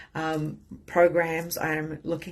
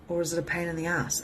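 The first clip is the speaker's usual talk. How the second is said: ordinary talk, nothing marked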